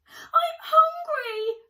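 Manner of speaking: high, loud, slow wail; desperate cry. Acted. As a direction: drag it out like a starving squirrel. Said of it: "cried Cyril".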